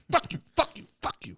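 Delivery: high, loud taunt; mock taunting shout. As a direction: jeer it at the opponent. Acted fighter taunt.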